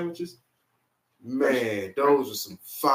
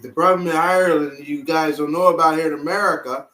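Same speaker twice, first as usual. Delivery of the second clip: put-on Irish accent; 4 dB louder than usual. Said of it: "My Irish accent is horrible".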